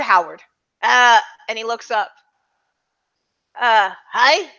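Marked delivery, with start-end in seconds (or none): 3.6-4.5 wrong character voice. Acted. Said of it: "Oh, sorry, wrong voice".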